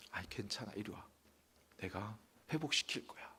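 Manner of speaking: tender comfort. Acted. God comforts the weeping prophet.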